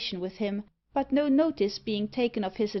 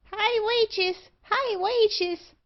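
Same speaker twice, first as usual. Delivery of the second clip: high-pitched bird squawk; screaming magpie; 12 semitones higher, 4 dB louder, much slower than usual. A narrator's reading. Magpie interrupts the barber and his visitor, screaming. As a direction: screech it like a talking magpie. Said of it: "screamed the magpie".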